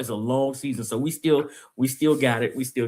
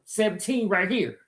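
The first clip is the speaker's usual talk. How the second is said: high, drawn-out pretend distress call; mock yell for help; 6 semitones higher, 4 dB quieter, slower than usual. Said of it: "yelling like this".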